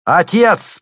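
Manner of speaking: loud, high ringing cry; ringing call. A narrator's reading. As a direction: call out to father clearly. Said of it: "звучный голос Евлампии".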